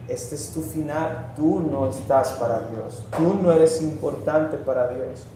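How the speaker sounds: hushed discouraging inner voice; voice of doubt. Acted. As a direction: say it quietly, like doubt speaking inside. Voicing doubt's discouraging whisper to believer.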